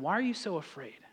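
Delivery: soft, hushed reproach; gentle question. Acted. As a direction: ask it quietly into the stillness. Jesus gently asks after calm.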